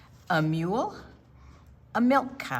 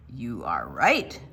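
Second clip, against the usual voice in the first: owl voice; 9 semitones lower than usual. Acted. Barn Owl speaks.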